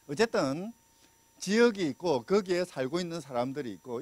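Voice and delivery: ordinary delivery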